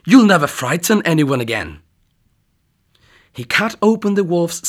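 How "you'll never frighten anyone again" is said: triumphant. Acted. Hunter triumphant over wolf.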